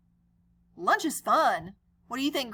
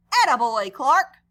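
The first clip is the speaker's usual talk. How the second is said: teacher's praise; 9 dB louder than usual. Acted.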